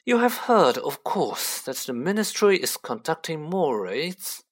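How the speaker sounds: a hint of lordly self-importance; lofty Malfoy. Voices Mister Malfoy.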